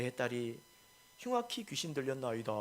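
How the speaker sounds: dignified, unhurried recital of a plea; mock solemn. Shown as a demonstration. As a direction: sound far too composed for someone begging. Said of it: "근엄한 목소리로 이야기했을까요?". (근엄하고 점잖은 목소리로)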